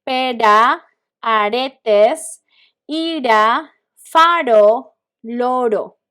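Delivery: "Pera, aretes, ira, faro, loro" with R tapped like D; soft R as D. Shown as a demonstration. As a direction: model each word slowly, R as a quick D. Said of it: "imagine this is letter D".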